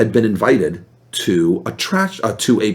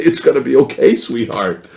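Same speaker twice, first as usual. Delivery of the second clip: tender reassurance. Retold or imitated. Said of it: "pick her up and hold her and say".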